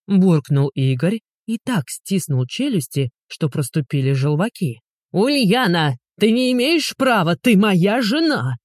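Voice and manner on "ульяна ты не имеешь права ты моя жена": yelling down the street. A narrator's reading. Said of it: "Неслось на всю улицу".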